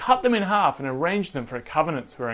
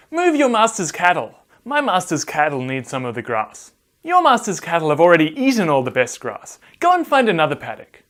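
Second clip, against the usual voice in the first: herdsmen quarrelling; 5 dB louder than usual. Acted. Herdsmen arguing over grass.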